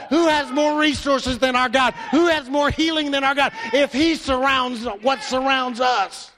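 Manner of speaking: rising preacher's call, building to a shout; preaching. Acted. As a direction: preach it to the congregation, pressing harder. Preaching at full force.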